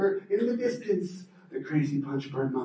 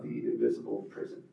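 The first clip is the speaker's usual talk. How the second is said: spooky whisper; 13 semitones lower, 11 dB quieter than usual. A narrator's reading. Spooky legend name.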